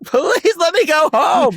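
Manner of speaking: high, slow, pleading mock sob; hammed-up tearful whine; exhausted weepy plea. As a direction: beg to go home after the twelfth take. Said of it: "she's like".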